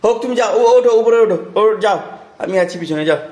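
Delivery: high, cheering the little climber on. Real, not acted. Urging toddler up the stairs.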